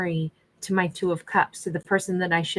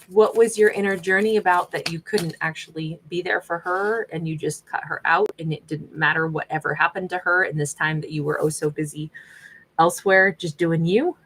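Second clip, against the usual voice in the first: mean-friend sarcasm. Real, not acted. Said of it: "I'm the big mean friend".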